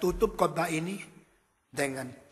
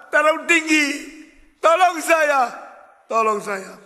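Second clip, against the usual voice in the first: high, loud reply from the pit; drunk man answering; 10 semitones higher, 9 dB louder than usual. Acted. Drunk pleads.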